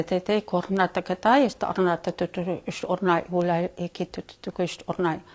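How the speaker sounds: chanted channeled syllables; light language. Acted. Channeler voicing beings in light language. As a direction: let the strange syllables flow like a channel.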